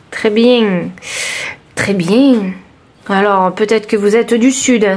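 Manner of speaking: lightly put-on accent from the south of France; southern French accent. Reader suggesting viewers are from the south, southern French accent. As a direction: slip into a southern French twang. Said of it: "je reprends mon accent normal".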